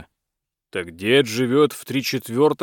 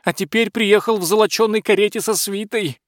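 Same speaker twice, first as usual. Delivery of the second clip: much higher, flustered servant voice; hurried butler; 9 semitones higher than usual. A narrator's reading. Frightened butler hurries to explain to the tsar, high and flustered. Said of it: "торопливо объяснял прохиндей".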